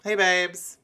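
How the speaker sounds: high, loud, drawn-out hello babes; showy high hello to listeners; singsong greeting. Pretend. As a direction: croon a big playful hello. Sing-song greeting tryout.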